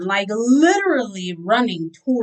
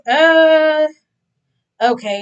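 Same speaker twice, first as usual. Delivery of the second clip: taken aback; 7 semitones higher, 7 dB louder, slower than usual. Retold or imitated. Hesitant reply to sister's news.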